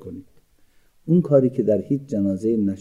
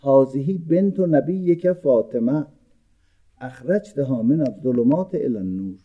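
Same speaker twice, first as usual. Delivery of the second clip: calling out loud; 4 semitones higher than usual. Retold or imitated. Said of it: "با ندای بلند گفت".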